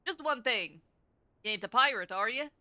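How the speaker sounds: lightly put-on Scottish brogue; a hint of a gruff Scottish rogue; terrible Scottish accent. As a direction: read it in a rough, amateur Scottish accent. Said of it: "my really terrible Scottish accents".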